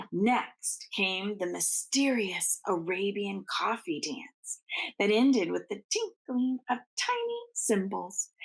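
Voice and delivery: gentle bedtime storytelling; storybook narration. Acted. Reading the Nutcracker aloud to children, gently paced. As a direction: read it like a picture book to little ones.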